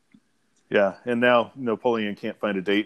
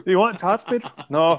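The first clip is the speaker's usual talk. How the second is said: higher-pitched, louder movie impression; impersonated delivery; 8 semitones higher, 3 dB louder than usual. Replicating his delivery for fun, higher mock character voice. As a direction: lightly mimic the film characters, voice raised. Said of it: "that's his delivery ... in impersonating that".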